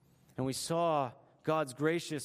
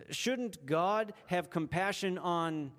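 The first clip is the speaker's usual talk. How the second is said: slowly, leaving the end open for the blank; slow preacher's setup with a falling end; slow, leading pause; 2 semitones higher, slower than usual. Shown as a demonstration. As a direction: draw it out so listeners fill in the gap. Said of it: "fill in the blank?".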